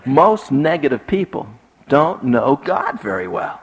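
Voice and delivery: slow "don't know God very well" after a pause; deliberate restatement with weight on "God"; repeated for emphasis. Shown as a demonstration. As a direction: lean on "God", spacing out the words. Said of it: "Three times for emphasis".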